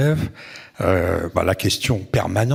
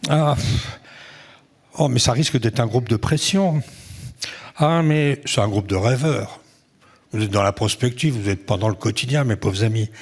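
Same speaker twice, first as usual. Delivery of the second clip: quoted objectors, higher-pitched sighing protests; mayors' dismissive objections; 3 semitones higher than usual. Retold or imitated. Small-town mayors brushing off the development council, mock-dismissive. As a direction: imitate skeptical mayors brushing it off. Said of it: "euh, on me dit".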